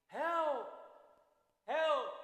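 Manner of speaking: panicked shout for help in the factory; calling for help. Retold or imitated. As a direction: yell for help across the floor. Someone calling during accident.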